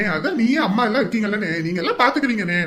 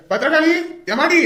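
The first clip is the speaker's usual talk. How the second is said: high, drawn-out call; slow, raised calling voice; 7 semitones higher, 3 dB louder than usual. Acted. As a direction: summon her from another room. Calls the woman from elsewhere.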